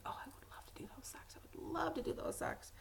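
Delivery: breathless whispered longing; soft whispered daydream about knitting; whispered thought. Retold or imitated. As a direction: whisper it like a secret wish to yourself. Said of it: "and I kept on thinking".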